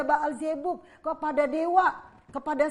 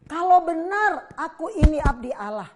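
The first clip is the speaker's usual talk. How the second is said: stern prophet; 4 semitones higher, 10 dB louder than usual. Acted. Elijah answers the officer.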